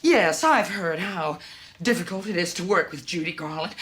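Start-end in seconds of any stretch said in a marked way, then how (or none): 1.8-3.7 low, contained echo of a complaint; measured retort. Acted. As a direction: repeat the accusation low and controlled, weight on "work". Repeating a complaint about her.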